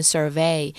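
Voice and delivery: "survey" with the stress on VEY; stress on second syllable. Shown as a demonstration. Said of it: "重音会放在V".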